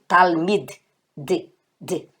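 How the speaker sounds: "talmid", then the last "D" alone as soft DH; "talmid" with a light DH, echoed quietly as "D"; soft final DH. Shown as a demonstration. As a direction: isolate the soft DH ending of "talmid". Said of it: "com esse sonzinho de D H".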